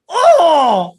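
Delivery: sudden high, loud cry of pain; pained yelp. Retold or imitated. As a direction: yelp as if hit below the belt. Masked opponent kicked in groin.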